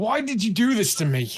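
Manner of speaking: furious, high, angry character yell. Voicing a robot shaking a hungover elf overhead: yelling in character. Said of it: "start yelling at him".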